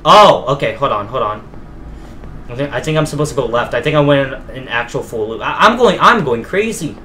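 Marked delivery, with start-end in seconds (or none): 5.4-7.0 higher, stammering exasperation; exasperated rise. Real, not acted. Player stuck going in circles, exasperated and higher. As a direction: let frustration push the voice up. Lost in looping game rooms.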